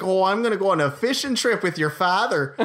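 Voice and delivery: half-yell it as a silly threat; mock yell. Someone picking a fight, imitated mild yelling. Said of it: "someone yelling at you being like".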